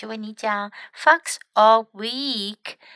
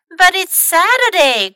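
loud, high-pitched objection; crying out in protest; 8 semitones higher, 9 dB louder than usual. A narrator's reading. Fox objects to Mom's dressing up, high loud protest. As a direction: wail a child's protest. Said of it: "cried Fox".

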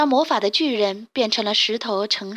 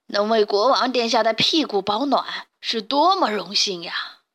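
excited. Acted. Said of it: "卢茨佩罗激动地说道".

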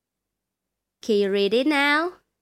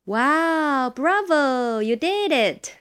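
excited praise; 6 semitones higher, 3 dB louder, slower than usual. Real, not acted. Praising child's reading.

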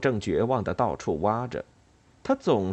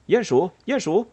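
high, loud urgent calling; excited little mouse yelling; shrieking fieldmouse; 8 semitones higher, 5 dB louder than usual. A narrator's reading. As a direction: call out shrilly for a friend. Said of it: "田鼠威力尖叫着".

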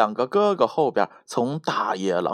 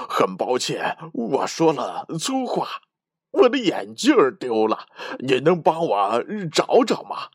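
pleading hunter. Acted. Hunter on the ground begging grandma for help, flustered plea. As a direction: stammer out a polite plea on your knees. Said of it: "猎人趴在地上恳求道".

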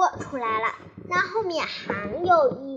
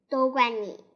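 huffy blame; 2 semitones lower, 4 dB louder than usual. Acted. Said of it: "维尼气呼呼地说".

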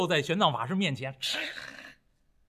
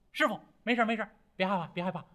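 轻声宽慰，越说越低越轻; 徒弟轻声哄师父别慌; 3 dB quieter, much faster than usual. Acted. 悟空安慰受惊的师傅. (轻声安抚，逐渐放低)

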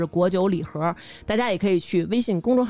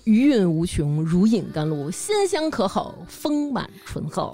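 ad-copy gush. Acted. Flowery ad-copy praise of wine.

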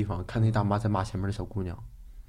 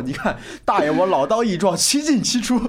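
mock boastful old chess player, rising to high pitch; old man boasting; 8 semitones higher, 4 dB louder than usual. Old man boasting to the young chess partner, lightly voiced. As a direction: crow it like a proud old man. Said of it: "然后就告诉我".

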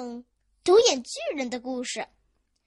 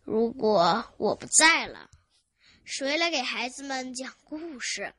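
pessimistic. Acted. Grandpa wonders who will succeed him, pessimistic. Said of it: "他有了个悲观的念头".

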